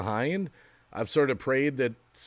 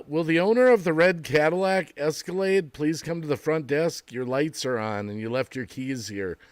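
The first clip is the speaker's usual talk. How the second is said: flat echoey pa page; 3 semitones higher, 3 dB louder than usual. Pretend. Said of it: "trick people like".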